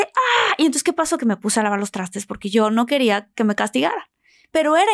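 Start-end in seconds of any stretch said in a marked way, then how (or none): 0.0-0.5 stunned ah. Retold or imitated. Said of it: "yo así de".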